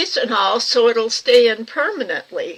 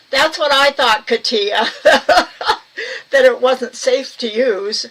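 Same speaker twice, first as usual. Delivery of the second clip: laughing; 2 semitones higher, 4 dB louder, slower than usual. Real, not acted. Laughing at super glue idea.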